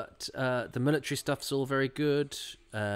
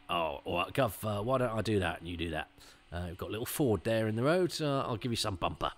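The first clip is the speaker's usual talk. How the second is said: lightly voiced Cockney cameraman, pitched down; Cockney stuntman; 4 dB quieter than usual. Cameraman chatting to his gov on a shoot, light Cockney. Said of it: "I made the film cameraman a Cockney stuntman".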